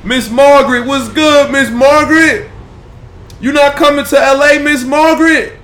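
very high, loud playful calls; teasing shouts. Real, not acted. Dad calling out to his toddler who won't walk, teasing shouts.

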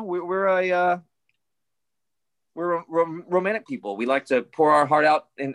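half-hearted Irish accent playing the Irish guy; hinted Irish accent. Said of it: "I could do the accent if I could, but I can't".

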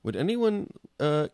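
slow, high dopey giant voice; lightly voiced big gentle giant; Andre the Giant. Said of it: "my Andre the Giant impression".

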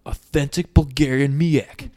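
lightly acted boasting; cocky, arrogant. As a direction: show off with mock swagger. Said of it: "he's so cocky, and he's so arrogant".

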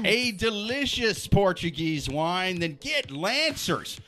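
slow, hammy commercial pitch; ad read. Shown as a demonstration. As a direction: sell it like a TV spot. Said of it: "reading sponsor ad".

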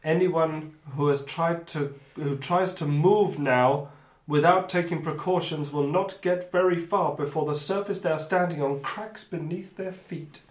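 deliberate storytelling, slowing at key phrases; game master narration. Acted. Game master putting quicksand peril to players, deliberate narration. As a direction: read out the danger, drawing out the final question.

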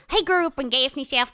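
lightly voiced southern dog; Cokie the dog. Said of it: "And Cokie kinda talks like this".

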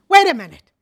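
indignant stop. Retold or imitated. Friend reacts indignantly.

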